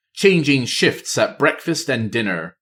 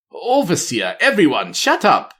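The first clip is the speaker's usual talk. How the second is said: high, rising yell for help; panicked shout; 7 semitones higher than usual. Acted. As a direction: call out in a panic, higher. Panicked guard calls out.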